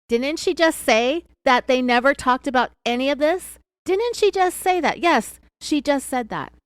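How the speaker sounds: loud, high, incredulous challenge; indignant disbelief. Real, not acted. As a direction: pounce on the contradiction, raising your voice. Host incredulous at the contradiction.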